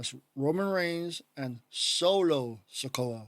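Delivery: slow, careful, deliberate, one word drawn out. Naming the tag team partners, saying the name slowly. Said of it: "The reason I'm saying it so slow".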